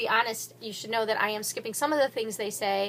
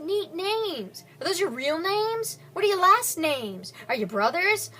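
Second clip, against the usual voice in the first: eager questions; 3 semitones higher, 5 dB louder than usual. Acted. Zach excitedly questions gunmen.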